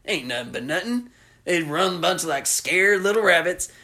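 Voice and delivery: lightly voiced killer; Otis home movie. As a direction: gloat about hunting. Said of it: "he's like".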